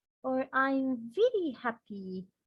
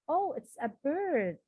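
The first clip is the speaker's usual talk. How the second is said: a raised oh of discovery; surprised exclamation; 4 semitones higher than usual. Shown as a demonstration. Teacher demonstrating surprise for students, mild surprise. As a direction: sound startled by the bird. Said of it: "more exclamation sentences".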